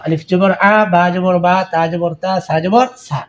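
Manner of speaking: আলিফ জবর আ spelled out clearly, letter, vowel sign, then sound; spelling drill. Shown as a demonstration. Teacher spelling Arabic letters for students, clear drill. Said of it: "শুধু বানান করে শিখেন".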